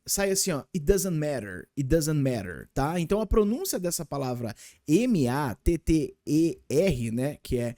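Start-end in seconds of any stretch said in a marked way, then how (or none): 0.7-2.7 "It doesn't matter" run together quickly; fast casual. Shown as a demonstration. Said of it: "Quando a gente fala bem rapidinho".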